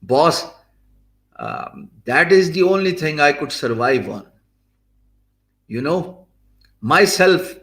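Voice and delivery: exaggerated Indian accent; deliberate, hammed-up Indian accent. Shown as a demonstration. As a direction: put on a mock Indian accent. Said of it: "now in an Indian accent".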